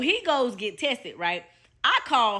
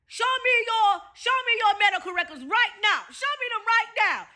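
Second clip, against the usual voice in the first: yelling; 7 semitones higher than usual. Retold or imitated. Angry boyfriend bursts in, yelling at her for her records. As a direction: bark the demand like an angry boyfriend. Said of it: "he comes in yelling".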